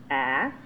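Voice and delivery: ask, low and steady, S before K; ask, calm repeat of the right form; ask, ending cleanly on K; correct ask again. Shown as a demonstration. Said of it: "There we go".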